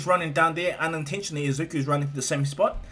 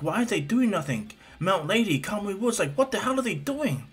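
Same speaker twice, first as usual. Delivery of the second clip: put-on high, indignant boy voice; Izuku; 6 semitones higher than usual. Boy watching heroes stand idle, high and baffled. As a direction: question it in climbing disbelief. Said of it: "Izuku's looking and seeing, like".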